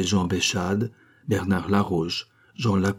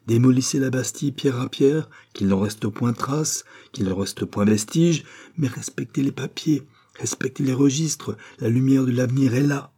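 higher, fervent appeal to a crowd; rally them to spare the papers; impassioned plea; 5 semitones higher than usual. Acted. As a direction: orator pleading before an angry crowd. Doctor pleads with the crowd.

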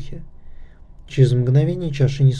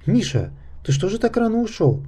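higher-pitched, restrained question; composed question; 8 semitones higher, 4 dB quieter than usual. A narrator's reading. Nakhta masters herself and questions Misha, composed. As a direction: ask lightly, keeping yourself in check. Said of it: "совладала с собой и спросила спокойнее".

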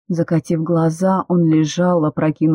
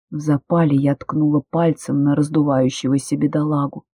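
ordinary delivery

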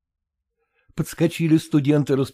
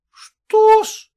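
very high, louder startled cry; indignant cry; 7 dB louder than usual. A narrator's reading. Maternitskaya answers the accusation, startled cry. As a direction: snap back in shock. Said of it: "вскрикнула в свою очередь Матерницкая".

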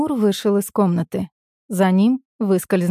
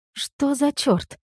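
stunned; 7 semitones higher, 4 dB quieter, much slower than usual. A narrator's reading. Narrator stunned, inner thought.

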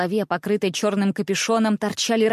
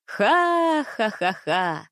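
merry laugh; much slower than usual. A narrator's reading. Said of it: "Тем же весёлым смехом".

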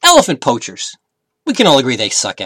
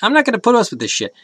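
fed-up bull elephant; 11 semitones higher than usual. Acted. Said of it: "the bull said".

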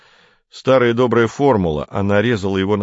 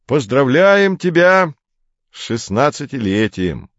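ласково; 6 semitones higher, 4 dB louder than usual. A narrator's reading. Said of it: "ласково сказал он".

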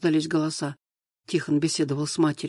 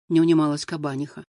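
plain reading voice

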